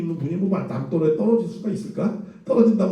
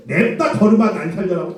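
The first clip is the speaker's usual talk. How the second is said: comic plain version; 3 dB louder than usual. Shown as a demonstration. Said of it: "근데 어떻게 했겠어요?".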